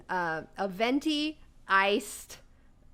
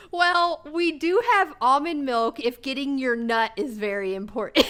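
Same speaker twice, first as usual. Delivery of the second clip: laughing through quote; 3 semitones higher, 4 dB louder than usual. Retold or imitated. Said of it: "and she goes".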